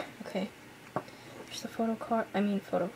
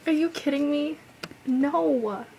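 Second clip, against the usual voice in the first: loud high delighted protest; excited disbelief; 5 semitones higher, 6 dB louder than usual. Real, not acted. Fan protesting loudly at her bias-ruiner's photo. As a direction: cry out in thrilled disbelief.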